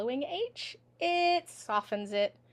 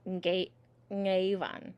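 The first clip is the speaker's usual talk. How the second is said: ngewan with a long, stressed first vowel; emphasized E; 3 dB louder, slower than usual. Shown as a demonstration. Teacher showing the fara in the word, E emphasized. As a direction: lean slowly on the e of ngewan. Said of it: "That E is emphasized".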